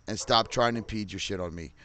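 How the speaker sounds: says impede by mistake, in a plain angry tone; wrong word impede. Real, not acted. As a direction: slip and say impede where impose was meant. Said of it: "Sorry, I used impede".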